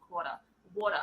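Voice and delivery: "Quarter" and "Water" with no R's, ending in "ah"; least-effort Aussie vowels on "Quarter" and "Water"; lazy Australian pronunciation. Shown as a demonstration. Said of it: "As little effort as possible".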